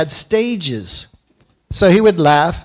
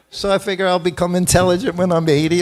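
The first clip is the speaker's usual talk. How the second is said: laughing; faster than usual. Real, not acted.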